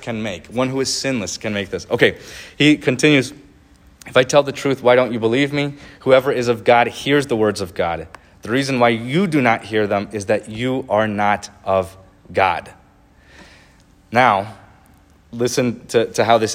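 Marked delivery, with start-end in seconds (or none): 4.1-12.7 earnest, measured Bible reading; preacher reading scripture aloud. Acted. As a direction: read the words of Jesus with weight. Reads Jesus' words aloud.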